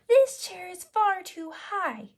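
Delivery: high, loud, slow whine; child too small for the big chair; Goldilocks complaining. Acted. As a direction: fuss like a little girl.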